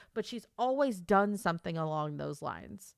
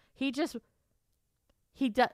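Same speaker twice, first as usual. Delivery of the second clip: ordinary talk, nothing marked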